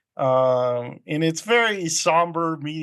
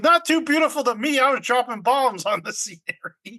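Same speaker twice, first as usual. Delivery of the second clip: mock gruff veteran; 9 semitones higher than usual. Veteran bitter retort in retelling.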